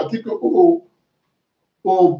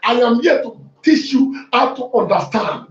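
fiery preaching; 2 semitones higher than usual. Acted. Pastor preaching to his church, fiery and driving. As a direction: preach it hard to the congregation.

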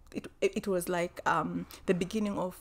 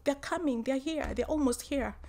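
urgent high plea; 5 semitones higher than usual. Retold or imitated. Pleading with partner at reception.

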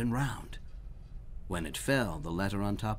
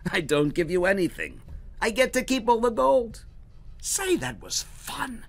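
high, loud delighted crowing; gleeful gloat; 13 semitones higher, 6 dB louder than usual. Acted. Herschel crowing at the beaten goblin, high and gleeful. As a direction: crow over the win.

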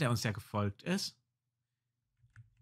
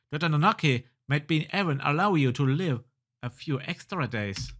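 animated storyteller reading; game story narration. Acted. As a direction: narrate the adventure game text with lively emphasis. Reads game dialogue and narration.

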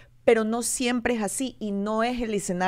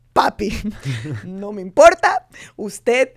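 defiant to dad; 8 dB louder, slower than usual. Retold or imitated. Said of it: "le dije a mi papá".

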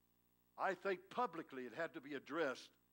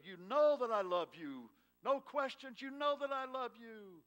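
fervent declaration; 9 semitones higher, 9 dB louder than usual. Acted. Declaring love to his mate.

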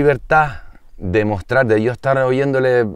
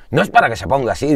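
mock annoyed shopkeeper; 3 semitones higher, faster than usual. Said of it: "como enfadado".

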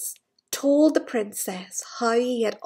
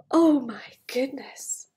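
slow, breathy whisper; whispered awe; slower than usual. Acted. Parent marvelling to the child, a slow whisper. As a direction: whisper it like a secret.

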